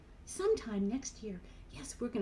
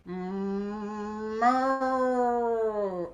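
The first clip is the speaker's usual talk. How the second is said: bossy cow moo; 5 dB louder than usual. Shown as a demonstration. Showing the kids a big bossy cow moo. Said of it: "like we're a big old bossy cow".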